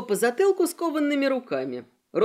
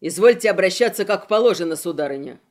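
louder, fast pompous rebuke; indignant outburst; 4 semitones lower, 5 dB louder, faster than usual. Acted. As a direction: demand respect, puffed up. Gora indignant to the girl.

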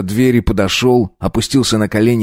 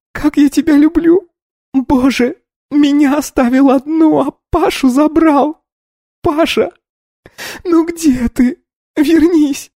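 wailing sobs; slower than usual. A narrator's reading. Polina begs dead Pasha to return, wailing. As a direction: sob and cry out his name. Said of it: "кричала и плакала взахлёб".

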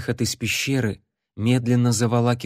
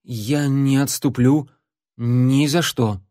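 defiant; 2 semitones higher, slower than usual. Acted. Larry defies the shadow.

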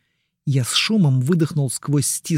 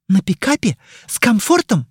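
mocking disbelief; 6 semitones higher, 4 dB louder than usual. Mari mocks his comfort words.

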